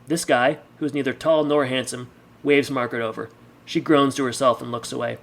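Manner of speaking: measured audiobook-style narration; story narration. A narrator's reading. Reader sets a bar scene for listeners, story narration. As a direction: read the story aloud with deliberate phrasing.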